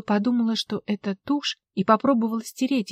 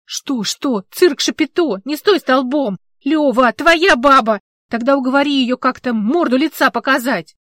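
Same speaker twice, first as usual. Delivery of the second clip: angry shouting; 4 semitones higher, 9 dB louder than usual. Acted. Alla yells at Lyova.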